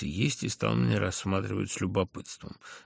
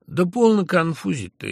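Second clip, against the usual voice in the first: giggling exclamation; 9 semitones higher, 7 dB louder than usual. A narrator's reading. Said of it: "хихикая вскрикнул Ферфичкин".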